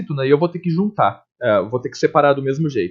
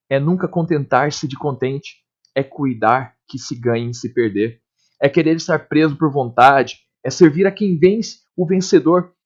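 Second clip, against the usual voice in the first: Camões sonnet read to a class; poem recital. Acted.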